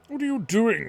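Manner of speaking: a doctor shouting at Kaim, fuming at his disobedience; angry shout. A narrator's reading. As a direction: yell it at him, outraged. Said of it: "the doctor shouts at him".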